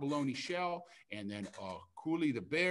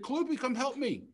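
calling for help; 8 semitones higher, 4 dB louder than usual. Acted. Oye calls the hummingbird for help.

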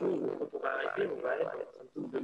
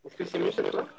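voice from beyond the grave. Real, not acted. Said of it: "C'est une voix d'outre-tombe".

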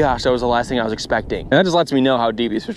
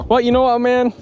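voice crack; 11 semitones higher, 3 dB louder than usual. Real, not acted. Sudden high jump.

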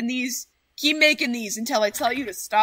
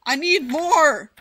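loud, slow yell of need; demanding shout; 3 semitones higher, 8 dB louder, slower than usual. Real, not acted. Shouting at viewers for more.

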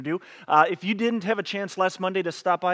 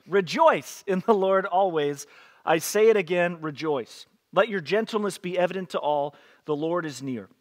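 scripture reading. Acted. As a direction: read the verses to the congregation with weight. Reads Philippians 4 aloud.

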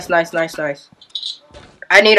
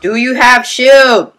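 slow, louder, spelled out; slow emphatic; 4 semitones higher, 3 dB louder, slower than usual. Real, not acted. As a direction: draw it out for them. Repeats unanswered question.

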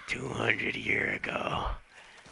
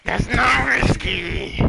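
much higher, louder, slowed "That's not whiskey!"; outraged shout; 13 semitones higher, 8 dB louder than usual. Acted. Johnny yelling about the wrong drink, loud. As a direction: yell it in outrage.

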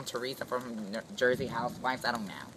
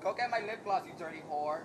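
higher, mock yelling order; mock scream; 6 semitones higher than usual. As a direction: playfully bark the order at her. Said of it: "Don't scream on me".

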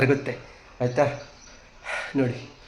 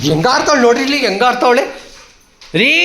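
excited squeal; 8 semitones higher, 5 dB louder than usual. Real, not acted. Playing with her dog.

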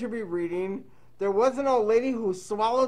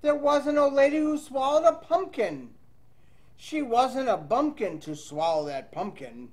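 lively read-aloud storytelling voice; reading to children; 3 dB louder than usual. Acted. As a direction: read the rhyme to young kids. Teacher reads picture book aloud.

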